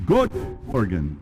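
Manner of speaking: good morgen said slowly, unsure Dutch; a slow, hesitant good morgen; Dutch attempt. Shown as a demonstration. Speaker tries a Dutch greeting, slow and unsure.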